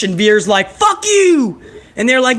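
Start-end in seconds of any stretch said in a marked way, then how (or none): 0.7-1.6 high-pitched retort, imitating a wrestler; hammed-up quarrel yell; mock defiant yell. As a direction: fling it back in a mock shout. Acted in-ring quarrel.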